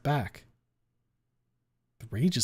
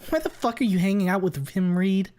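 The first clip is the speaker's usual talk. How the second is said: higher, louder indignant shout; outraged yell; 8 semitones higher, 7 dB louder than usual. A narrator's reading. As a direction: demand it of Reed angrily. Trish yelling at Reed.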